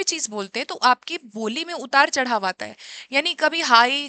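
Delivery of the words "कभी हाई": slightly raised, stronger voice on हाई; high pitch. Shown as a demonstration. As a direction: lift हाई a little to show high pitch. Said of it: "ये लो और हाई जो हमारा pitch". (हल्की ऊँची आवाज़ में)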